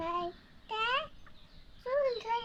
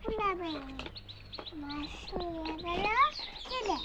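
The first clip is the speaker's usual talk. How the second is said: 1 reciting a rhyme; 3 semitones lower than usual. Real, not acted. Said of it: "একটা ছড়া বলো দেখি".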